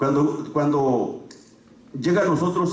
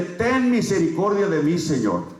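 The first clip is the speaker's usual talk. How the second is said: pleading prayer; slower than usual. Shown as a demonstration. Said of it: "hínquese y llórele con el corazón y dígale".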